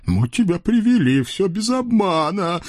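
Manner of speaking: high, whimpering imp voice with a mock sob; sobbing devil. Devil Khryak whimpers to the Cossack, high and teary. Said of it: "всхлипывая".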